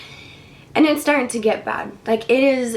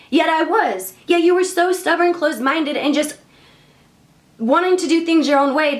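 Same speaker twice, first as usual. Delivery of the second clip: higher, emphatic mock telling-off; acted scolding; 3 semitones higher than usual. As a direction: play an exasperated God listing what was done. God scolds the man, retold.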